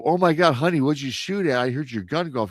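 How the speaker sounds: a jolt of fear at the gunshot; startled wife. Retold or imitated. Wife woken by the gun to husband, startled fearful cry.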